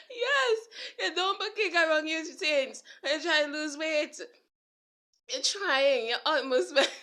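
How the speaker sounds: trying to preach while cracking up; still laughing. Real, not acted. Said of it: "I'm laughing because I do that".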